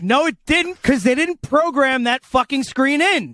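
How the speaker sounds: high, exasperated retort. Retold or imitated.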